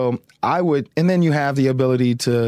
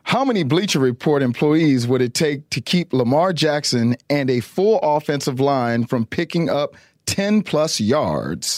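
lightly voiced TV anchor read; newscaster voice. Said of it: "do your best newscaster voice".

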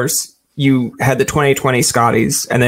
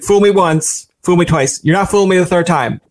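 put-on higher, sing-song taunt of the old saying; mock defiant; 4 semitones higher than usual. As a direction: taunt the bubble a third time. Mock defiant self-talk.

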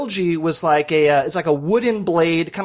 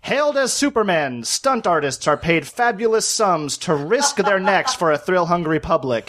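put-on old-timey newsreel voice. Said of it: "old-timey newsreel voice".

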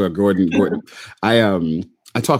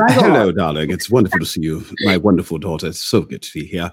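lightly British voiced father, a bit lower; 4 semitones lower than usual. Father greeting his daughter, light British accent. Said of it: "Nothing like a black Englishman".

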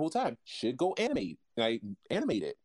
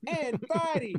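deadpan, no emotion; 13 semitones higher than usual. Retold or imitated. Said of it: "you have to say it with no emotion whatsoever".

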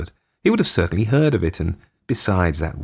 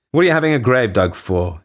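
blunt, demanding question; point blank; 5 semitones higher, 4 dB louder than usual. Acted. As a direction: fire it straight at him. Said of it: "asked the overseer point blank".

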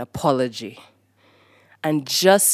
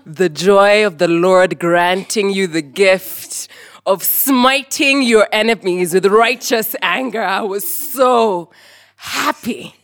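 louder, slow, laughing exultation; gleeful triumph; 6 dB louder, slower than usual. Real, not acted. Recalling chasing her brothers, loud laughing glee. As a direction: savour the victory out loud with a laugh.

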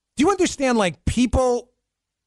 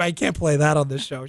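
usual speaking voice

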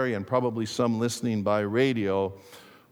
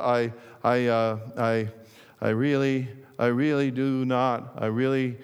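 halting, repeated stuttered words; stammering. Acted. Louis, asked how he sold so many, stammers. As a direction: stumble over every start. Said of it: "he stammered".

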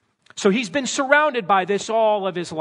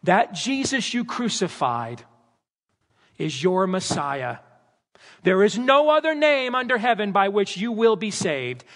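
bold Peter preaching; slower than usual. Retold or imitated. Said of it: "standing up ... and saying".

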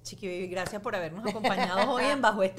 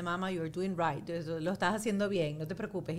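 reassuring; 4 semitones lower, 4 dB quieter than usual. Retold or imitated. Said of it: "le dije".

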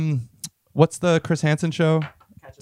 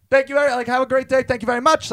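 mock gratitude; 9 semitones higher than usual. Acted gleeful reply to angry driver.

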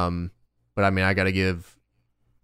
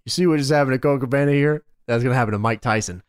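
trash-talking promo voice; wrestling promo; 4 semitones higher than usual. Retold or imitated. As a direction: snarl it like a heel wrestler. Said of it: "So he goes".

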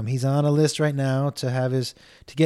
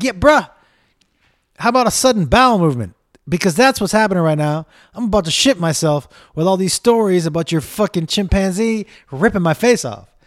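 louder, higher, fast freaked-out retort; panicked rant; 3 semitones higher, 4 dB louder than usual. Retold or imitated. Snapping back at the chimp handler, loud and panicky. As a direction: blurt it out like you're about to lose it. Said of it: "I'm like".

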